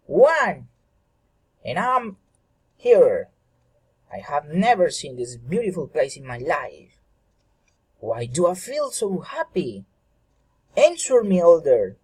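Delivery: high, pleading, insistent; insisting. Acted. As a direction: press the elder for an answer, voice up high. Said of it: "Eriki insisted".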